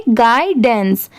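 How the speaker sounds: गाइडेंस slowly, as "guy" plus "dens"; careful, slow गाइडेंस opening on "guy"; pronunciation model. Shown as a demonstration. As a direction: sound out गाइडेंस in two slow parts. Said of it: "इसे हम क्या pronounce करेंगे?".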